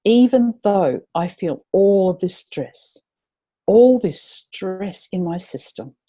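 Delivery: slow, deliberate affirmation for the group to echo; setup phrase to repeat. Shown as a demonstration. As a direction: lay it out slowly so they can say it after you. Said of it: "we're gonna say".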